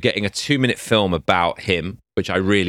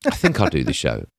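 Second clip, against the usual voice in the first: offhand; 2 semitones higher than usual. Retold or imitated. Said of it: "And she went".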